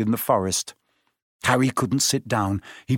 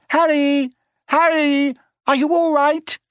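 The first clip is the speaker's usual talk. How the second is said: high, loud worried call; 5 dB louder than usual. A narrator's reading. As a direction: shout across the forest. Hermione calling out running.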